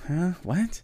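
high, incredulous huh what; baffled huh what. Real, not acted. Reacting to the lyrics, high baffled huh. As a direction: react in disbelief.

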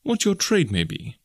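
slow, high, innocently bland. A narrator's reading. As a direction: ask it with feigned innocence. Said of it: "I said in the blandest voice".

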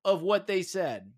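loud, high courtroom cross-examination; passionate closing argument. Pretend. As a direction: grill the witness like a prosecutor. Mock cross-examination of witness.

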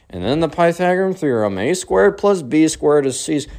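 lightly imitated teacher drone; lecturing math teacher. Teacher mid math class, lightly imitated lecturing voice. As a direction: recite it like a lesson.

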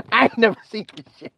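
real laughter running into the words; quick line squeezed out through laughter; laughing. Real, not acted. Speaker cracking up at his own point, laughing.

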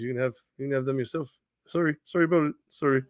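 hammed-up Canadian accent with apologetic sorries; mock Canadian-Australian accent. Coach apologizing on his way out, in a mock Canadian-Australian accent. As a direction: put on a muddled Canadian-Aussie accent. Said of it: "Australian slash Canadian slash French Steve Nash".

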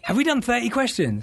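high, laughing disbelief; laughing question. Real, not acted. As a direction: ask it through a laugh. Surprised at running over time.

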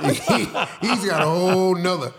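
can't help laughing while telling it. Real, not acted. Joking about his stylist, laughing.

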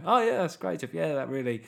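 sarcastic, unimpressed audience member; underwhelmed. Acted. Comedian voicing fans unconvinced by his crowd noise, underwhelmed sarcasm. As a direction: feign approval, then sink into dry sarcasm. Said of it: "feel people being underwhelmed there".

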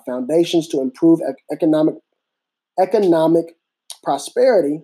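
stumbling over words with a dry mouth; tripping on words, mouth dry. Real, not acted. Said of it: "my mouth is dry".

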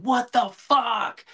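slow, high, stretched-out "What the fuck?" yelled in disbelief; emphatic scream. Retold or imitated. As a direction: belt "What the fuck?" like a fan outraged from the stands. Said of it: "I'm emphatically screaming".

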